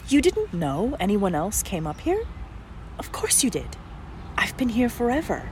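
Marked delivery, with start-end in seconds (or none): 3.0-3.8 whisper. Acted. Tree-person teasing the young man.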